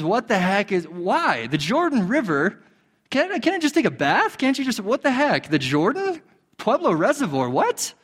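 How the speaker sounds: high, whiny mock outrage; throwing a fit. Preacher voicing Naaman's tantrum at the muddy river, mock outraged. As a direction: sputter like an indignant complainer. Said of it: "He throws a fit".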